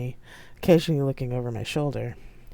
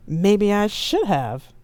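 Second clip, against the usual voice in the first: slow, loud retort; 6 semitones higher, 5 dB louder, much slower than usual. Acted. Quarrel retort.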